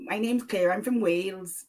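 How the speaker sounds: light Welsh accent imitation; a hint of a Welsh lilt. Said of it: "she has a Welsh accent".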